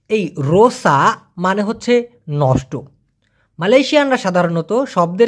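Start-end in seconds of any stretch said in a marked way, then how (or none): 0.1-2.8 unvoiced, slow whisper; whispered slow aside. Real, not acted. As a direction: breathe the explanation out in a slow whisper. Teacher explaining word meaning.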